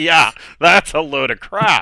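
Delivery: loud, slow scoffing laugh while speaking. Responding in character to another player's claim: laughing mockingly while talking. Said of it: "laughing at him".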